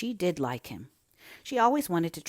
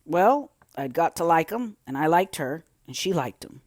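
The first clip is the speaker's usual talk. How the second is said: reluctant admission; 6 dB louder than usual. A narrator's reading. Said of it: "admitted reluctantly".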